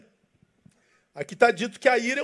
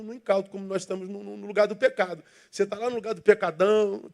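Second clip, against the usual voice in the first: normal talking voice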